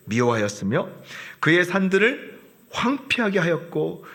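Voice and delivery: reading the verse aloud from the start; solemn read of the Lord's words; formal Bible recitation; scripture reading. Acted.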